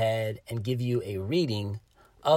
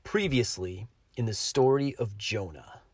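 "previously on" TV recap voice; TV drama recap voice; 3 semitones lower than usual. Shown as a demonstration. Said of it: "get my T V drama recap voice on".

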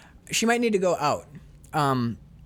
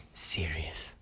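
whispered; 11 semitones lower, 10 dB quieter than usual. Retold or imitated. Alan insists he's dead serious.

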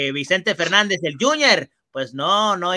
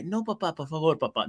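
pleading son; 7 dB quieter than usual. Retold or imitated. Son begs father again.

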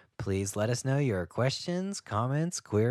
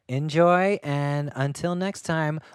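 slow announcer sign-off; 2 semitones higher, slower than usual. Acted.

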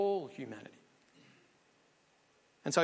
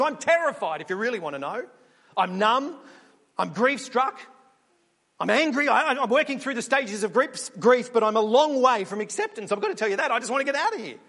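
frantic sheep Keith; 4 dB louder than usual. Pretend. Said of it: "and he says".

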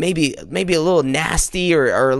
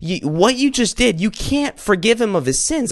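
higher, alarmed protest; the Pharisee protests to Jesus, higher and alarmed; freaking out; 6 semitones higher than usual. Acted. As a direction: cry out in outrage as a shocked Pharisee. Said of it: "the Pharisee starts freaking out".

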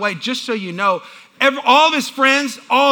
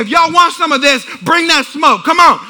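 raised, playful fighting talk; dad daring the kids on; mock challenge; 4 semitones higher, 4 dB louder than usual. Dad to five sons who would take him, mock challenge.

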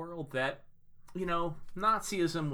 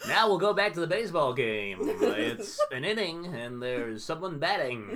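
deadpan sports commentator; baseball announcer voice; 3 dB louder than usual. Acted. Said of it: "I don't wanna do baseball announcer voice anymore".

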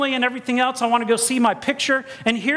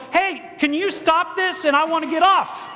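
higher, slightly panicked mock plea; mock pleading; 6 semitones higher than usual. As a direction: call out as a rider wanting off. Imagined rider begging to get off.

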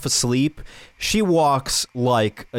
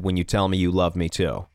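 low-pitched understated tenderness; sweet; 6 semitones lower than usual. Retold or imitated. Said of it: "really sweet moments".

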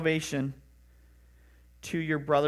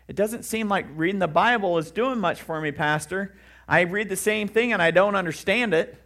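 mock frustrated complaint; 3 semitones higher, 5 dB louder than usual. Congregant complaining to pastor.

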